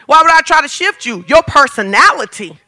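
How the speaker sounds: fast, laughing, worn-out spouse; weary spouse. Retold or imitated. Fed-up spouse brushing off a moody partner, fast and laughing. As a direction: rattle it off tiredly with a laugh. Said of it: "they start saying stuff like this".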